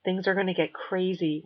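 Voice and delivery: put-on a light Jamaican accent on the dummy. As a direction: voice Reverend Bob with a Jamaican lilt. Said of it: "in a thick Jamaican accent".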